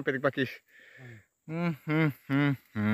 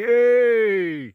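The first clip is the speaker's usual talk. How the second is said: sharp high yelp of surprise; a startled, loud "Eh"; surprised yelp; 8 semitones higher, 6 dB louder than usual. Real, not acted. Vlogger gasps at the towering fern, surprised yelp.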